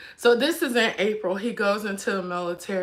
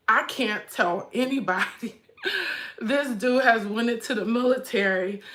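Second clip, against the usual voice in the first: laughing. Retold or imitated. Laughing through retold thought.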